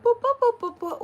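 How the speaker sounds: quick string of high boops; playful machine noise, boop after boop; imitated machine boops. Retelling a trip to the self-serve machine, imitated boops.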